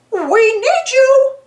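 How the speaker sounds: high, slow, loud plea; yelling. Acted. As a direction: call for help from afar. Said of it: "yelled Mickey".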